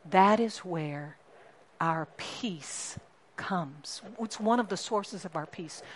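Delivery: quiet, slow reassurance. Real, not acted. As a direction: hush it, very slow. Softly on source of peace.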